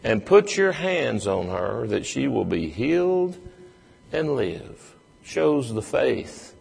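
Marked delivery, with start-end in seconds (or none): 0.0-4.9 mild pleading, slightly raised; a touch of desperate begging; earnest plea. Retold or imitated. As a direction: beg Jesus to come and heal. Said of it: "he pleads earnestly".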